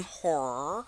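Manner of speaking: "horror" slurred toward "whore"; Southern "horror". Real, not acted. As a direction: say "horror" almost as one syllable. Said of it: "I always sound like whore".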